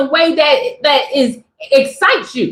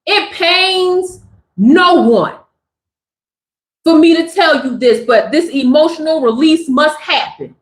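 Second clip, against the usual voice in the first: composed scripted reply. Pretend. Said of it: "You can start off by saying".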